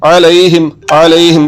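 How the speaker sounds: अलैहिम opening on a squeezed mid-throat ain; throaty ain. Shown as a demonstration. Teacher modelling the letter, throaty ain. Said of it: "ये आ गया ऐन".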